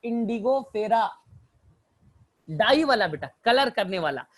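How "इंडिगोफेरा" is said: इंडिगोफेरा said slowly, syllable by syllable; slow spelled-out term. Shown as a demonstration. Teacher repeating the name for students, slow and clear. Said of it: "तो मैं second example लेता हूं".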